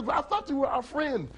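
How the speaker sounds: high-pitched betrayed frog; lightly acted plaintive protest; mildly hurt dismay. Frogs shocked by betrayal.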